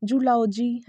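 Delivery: "जूलॉजी" as joo-LAU-jee; long "oo" opening "जूलॉजी"; slow "जूलॉजी" with full vowels; wrong pronunciation. Shown as a demonstration. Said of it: "ये सब इसका pronunciation नहीं होता".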